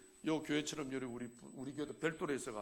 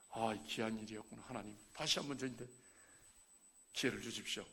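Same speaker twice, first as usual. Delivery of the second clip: low, soft, retold prayer; humble plea; 6 semitones lower, 6 dB quieter than usual. Elder asks God for another chance, humble low plea. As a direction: ask softly for one more chance.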